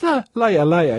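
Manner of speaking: mock brush-off. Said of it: "And he goes".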